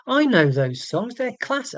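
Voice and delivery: put-on eager recognition; feigned enthusiasm. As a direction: pretend to know them and love them. Feigns knowing the songs.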